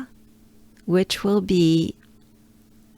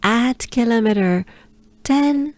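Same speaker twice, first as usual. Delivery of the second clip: slower retake; 3 semitones higher than usual. Shown as a demonstration. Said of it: "let me do it again".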